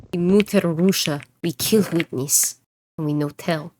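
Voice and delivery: badly faked Russian accent; amateur Russian accent. Streamer joking about Mutter Russia, amateur Russian accent. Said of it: "Can you tell that I'm not trained in accents?".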